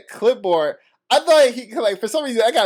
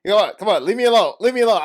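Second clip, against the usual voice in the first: mock yell, higher, a little louder; retold yelling; 4 semitones higher, 4 dB louder, much faster than usual. Man on the train confronting another rider, retold yelling. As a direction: imitate an agitated man yelling to be left alone. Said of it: "yelling in his face".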